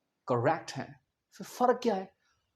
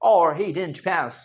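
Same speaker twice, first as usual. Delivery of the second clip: slow American example sentence; American English with "pæs"; American accent; 3 semitones lower, much slower than usual. Shown as a demonstration. Teacher giving an example sentence, slow American accent. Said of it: "क्या बोल देंगे वो".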